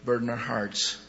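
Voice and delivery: steady earnest prayer voice. Real, not acted. Pastor closing the service with the congregation, earnest prayer. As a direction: pray for the room in calm earnest tones.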